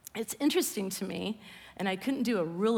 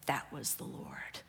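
lower, softer, hushed pious verdict; self-righteous; 7 semitones lower, 7 dB quieter than usual. Retold or imitated. Mocking judgmental believers blaming the fire on God, hushed and self-righteous. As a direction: pronounce it like a smug, knowing judgment. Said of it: "See how self-righteous that is?".

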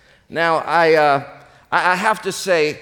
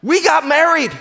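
higher, louder through a laugh; laughing punchline; 9 semitones higher, 4 dB louder than usual. Acted. Husband confesses marrying the nurse, laughing. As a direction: blurt it out laughing.

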